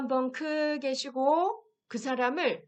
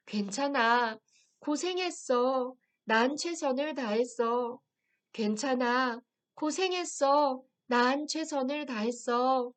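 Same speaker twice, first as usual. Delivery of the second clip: gentle self-comfort. Shown as a demonstration. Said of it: "제가 읽어드릴게요".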